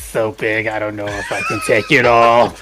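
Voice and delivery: acted Jill voice. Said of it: "but that voice right there".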